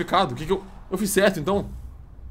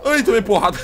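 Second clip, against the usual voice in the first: hit hard crying out; 5 semitones higher, 8 dB louder than usual. Real, not acted. Hit in game, cries out.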